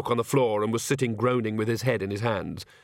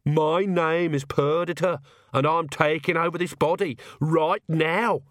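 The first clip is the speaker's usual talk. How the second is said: a slow, higher other self takes over; different voice; 5 semitones higher, slower than usual. Acted. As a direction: speak as someone else entirely. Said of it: "her voice sounded quite different".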